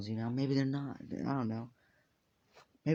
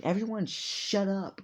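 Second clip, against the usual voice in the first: higher, louder, drawn-out command; slow, loud order; 8 semitones higher, 4 dB louder, slower than usual. Acted. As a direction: silence the room slowly and firmly. Teacher silencing noisy class.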